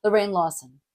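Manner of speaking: "Lorraine Lawson" trailing down at the end; casual falling tune on "Lorraine Lawson"; name falling off. Shown as a demonstration. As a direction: toss off "Lorraine Lawson", letting "Lawson" drop away. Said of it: "say their name and fall off".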